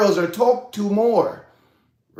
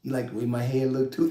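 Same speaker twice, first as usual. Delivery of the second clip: suspicious; 5 semitones lower, 9 dB quieter than usual. Retold or imitated. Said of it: "it's like".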